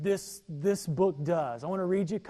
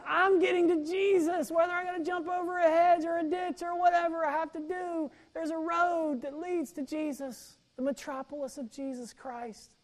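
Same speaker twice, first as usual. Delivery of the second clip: fervent preaching; 9 semitones higher than usual. Acted. Paraphrasing Spurgeon with fervour.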